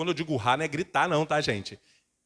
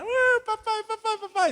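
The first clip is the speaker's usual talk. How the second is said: put-on much higher pleading child's voice; whiny little girl. Daughter running to her father, whining for help. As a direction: whine for daddy. Imitating daughter crying for dad.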